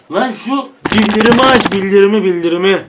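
loud, demanding yell at YouTube; frustrated yell. Real, not acted. Vlogger yelling at YouTube to turn on notifications, loud and frustrated. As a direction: bark the order to switch notifications on.

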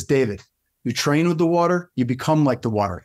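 lightly attempted Russian accent; Igor's Russian accent. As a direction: imitate a Russian mentor teaching, accent kept light. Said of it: "I'm trying with a Russian accent".

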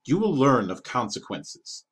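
slow, weighty menace from the king; slow threat. Acted. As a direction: promise pain, slowly.

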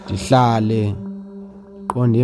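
ordinary talk

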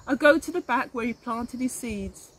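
put-on reading a picture book aloud to children; gentle read-aloud narrator; story narration. A narrator's reading. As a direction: tell it like a storybook for little ones. Reads picture book aloud to class.

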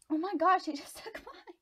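high, loud disbelief breaking into a laugh; laughing, high-pitched shock; shocked outcry. Real, not acted. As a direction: exclaim at being caught out. Opponent takes her piece.

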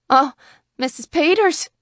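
high, startled cry. A narrator's reading. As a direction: cry out to her, pitch leaping up. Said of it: "she cried".

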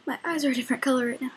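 fast, hyper chatter; wired. Real, not acted. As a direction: rattle it off, buzzing with energy. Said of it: "But I'm really wired right now".

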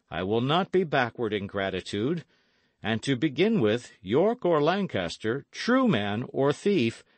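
lightly voiced lord granting freedom; declaiming nobleman, emphatic toward the close; grateful, resolute Earl. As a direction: pronounce it formally, building to a firm dismissal. Earl gratefully frees Dick.

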